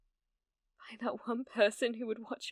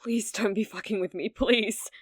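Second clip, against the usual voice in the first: desperate loud pleading; 6 dB louder than usual. Acted. Desperate plea to returning viewer.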